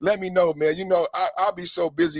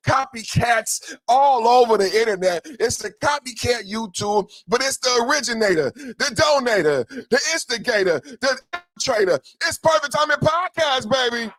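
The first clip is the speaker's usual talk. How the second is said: hype boast; 5 semitones higher than usual. Acted. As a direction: brag like the originator. Boastful hype rant about originality.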